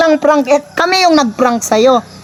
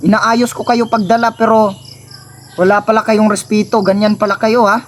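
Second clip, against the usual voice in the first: mock hurt; 5 semitones lower than usual. Brother acts hurt that they have no respect, in mock sulk. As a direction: act betrayed and disappointed. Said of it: "Kunyari lang galit ako".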